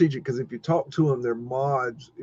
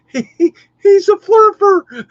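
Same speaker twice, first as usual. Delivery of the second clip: much higher, louder, slow sing-song jeer; mocking taunt; 12 dB louder, slower than usual. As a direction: drag it out like a playground taunt. Mocking trolls calling him names.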